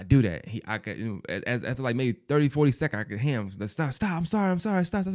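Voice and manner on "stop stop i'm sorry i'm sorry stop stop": higher, begging stop, stop; mock pleading. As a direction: imitate a kid begging you to quit. Retold plea from boy.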